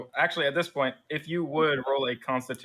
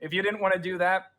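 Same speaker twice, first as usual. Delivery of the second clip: higher, hearty officer inviting them back; warm, upbeat commander offering more work; friendly general; 3 semitones higher than usual. Acted. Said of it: "and he's like".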